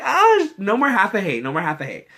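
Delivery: a cheerleading chant; gushing. Retold or imitated. A fan cheering Anne Hathaway, high and gushing. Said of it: "Like, I'm like".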